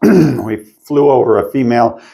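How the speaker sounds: speaking with a frog in the throat. Real, not acted. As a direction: talk through a throat that needs clearing. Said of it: "gotta clear my throat a little bit".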